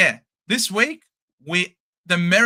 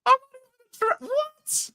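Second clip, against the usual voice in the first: surprised. Real, not acted. Confused by league name.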